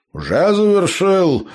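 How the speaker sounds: high, slow, dazed and cheerful; gnome voice. A narrator's reading. Gnome bounces up from the dirt, high and cheerful. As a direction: chirp it out like a dizzy gnome. Gnome chirps after being kicked.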